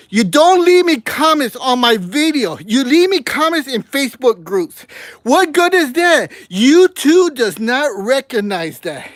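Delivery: worked-up, aggrieved rant; real irritation. Real, not acted. Vlogger scolding viewers who skip the like button, angry. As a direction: vent your frustration, stressing the grievances. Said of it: "I get angry".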